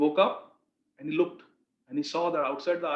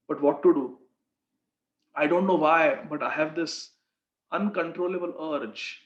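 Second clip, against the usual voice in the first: pleading, tearful; 2 semitones lower than usual. Retold or imitated. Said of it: "Started crying".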